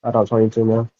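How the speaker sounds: speaking through a covered mic; muffled. Real, not acted. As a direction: voice muffled by headphones. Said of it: "you muffled a little bit".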